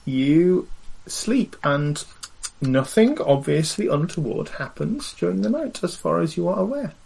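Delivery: hint that something is being held back; pointed, careful game-master phrasing; suggestively ominous. Acted. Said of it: "Why do you say it like that".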